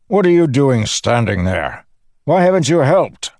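high, loud scolding shout; angry shout. A narrator's reading. The Windrunner berates Dalinar for standing by, shouting angrily. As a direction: shout an indignant reprimand. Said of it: "he shouted".

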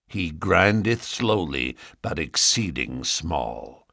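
slow, nasal and pious. Acted. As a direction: drone it through the nose. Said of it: "in a nasal voice".

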